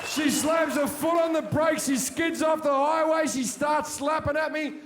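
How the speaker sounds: loud, high frantic telling of the struggle; rising panic as the car scene unfolds; shouting the chaos of the skid and slapping; building shouted retelling. Retold or imitated.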